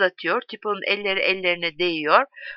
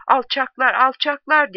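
high, raised cry of outrage; shouting; 5 semitones higher, 4 dB louder than usual. A narrator's reading. A prisoner behind Bruno cursing the soldiers, shouting. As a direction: hurl the insult in a raised voice. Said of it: "diye haykırıyor".

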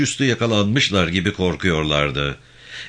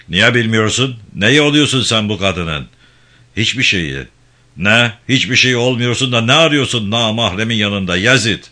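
angry interrogator; 4 semitones higher, 5 dB louder than usual. Acted. Gendarme chief interrogates Mahmut.

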